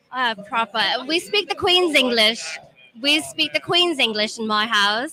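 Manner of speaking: put-on proper Queen's English accent; posh British accent. Puts on husband's British English.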